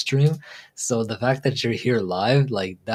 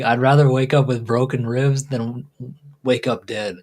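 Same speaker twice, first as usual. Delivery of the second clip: "wake up dead" slips out, a little louder; flubbed saying; 4 dB louder than usual. Retold or imitated. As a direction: replay the blunder, the garbled version. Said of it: "But how I said it was just like".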